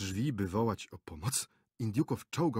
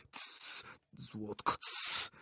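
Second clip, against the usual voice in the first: soft, urgent shushing; hushing whisper; 7 dB quieter, much slower than usual. A narrator's reading. Director to shouting actress, urgent hush. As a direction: hush her at once.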